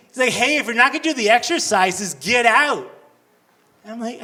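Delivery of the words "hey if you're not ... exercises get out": angry instructor. Retold or imitated. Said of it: "he gets angry at me".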